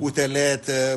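"تلاتة" with both consonants as t; Egyptian t sound. Shown as a demonstration. Linguist giving a dialect example, "تلاتة" said with t. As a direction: say "تلاتة" with t, never th. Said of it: "في غالب الاستعمالات إلى تاء".

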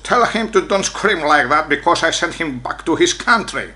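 slow mock American English, heavily Greek-accented; drawn-out Greek-accented English quote; imitated American policeman. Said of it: "λέει ένας από τους αστυνόμους".

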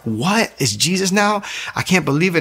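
high-pitched disbelief, imitating the girlfriend; incredulous girlfriend. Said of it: "She's like".

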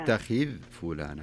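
"أتخذ" ending on a still ذ before "فلانا"; unvowelled dhal. Shown as a demonstration. Teacher correcting the reciter, "أتخذ" with sukun on ذ. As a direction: close "أتخذ" on ذ with no vowel. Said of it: "سكني الذال".

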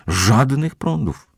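high, slow reassurance; voiced as Sokole Oko, drawn out; promising. A narrator's reading. Sokole Oko promises the housekeeper, high and slow. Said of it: "obiecał sokole oko".

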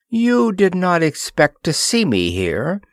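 high-pitched, harsh queen; mildly harsh regal address. A narrator's reading. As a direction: confront them harshly from on high. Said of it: "she said harshly".

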